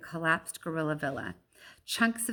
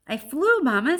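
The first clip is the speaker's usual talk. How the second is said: put-on high, loud proud young voice; high proud little voice; proud little gorilla; 8 semitones higher, 9 dB louder than usual. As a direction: brag happily to mama.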